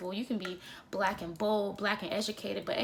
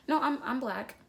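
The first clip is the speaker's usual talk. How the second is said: proud, insistent, higher-pitched reply; 5 semitones higher, 4 dB louder than usual. Acted. Answering people who doubt she's black, proud. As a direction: hold your ground with pride. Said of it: "say it as proudly as that".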